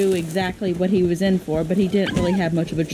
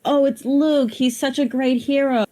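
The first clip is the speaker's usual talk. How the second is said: mock admiration; 5 semitones higher than usual. A naive reader admires Luke, lightly gushing. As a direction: gush like a naive fan. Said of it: "you see Luke in there and you think".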